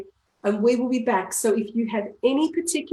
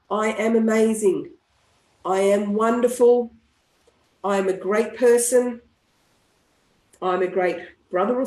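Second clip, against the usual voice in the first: tapping session affirmations; affirmation script. Shown as a demonstration. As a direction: lead the group through affirmations.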